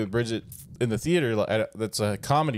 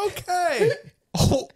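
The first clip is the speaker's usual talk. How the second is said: much higher, tight, laughing-crying okays; stunned forced cheer; 13 semitones higher, 3 dB louder than usual. Retold or imitated. Son stunned his conservative parents liked Deadpool, high strained cheer. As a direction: force polite approval through disbelief.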